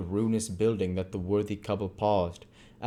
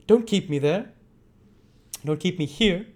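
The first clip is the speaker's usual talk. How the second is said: high, loud and urgent; impatient; 10 semitones higher, 7 dB louder than usual. A narrator's reading. Monks urging the couple out of the rain, loud impatient. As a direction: snap at them to hurry. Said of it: "he cried impatiently".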